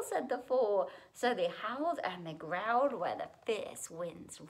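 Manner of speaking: put-on lilting rhymed storytelling for children; animated children's story reading; story narration. A narrator's reading. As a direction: read a picture book aloud in rhythm. Reads a rhyming picture book aloud.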